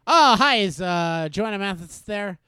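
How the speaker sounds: put-on boy calling a crush's house, nervously polite; nervous kid on phone. Retold nervous phone request.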